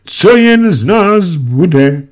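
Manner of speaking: high, slow, bitter lament; bitter wail. A narrator's reading. Mother despairing over her family's fate, high slow wail. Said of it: "zabědovala hořce".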